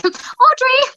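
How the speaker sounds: high-pitched, exasperated call to an author; mock pleading cry. Mock plea to author for sequel.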